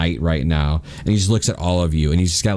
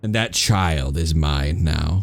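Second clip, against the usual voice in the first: lightly voiced shadow creature; dark entity voice. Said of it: "He goes".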